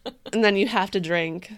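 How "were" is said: loud anguished cry; tortured mascot voice. Pretend. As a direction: wail it like a tortured soul. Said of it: "He's a tortured soul".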